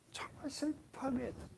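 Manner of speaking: soft, falling 정말 슬퍼하며 애통; hushed mourning. Shown as a demonstration. Preacher voicing Abraham mourning Sarah, hushed and falling. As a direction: let the voice sink with sorrow. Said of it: "사라가 죽은 걸 보고요".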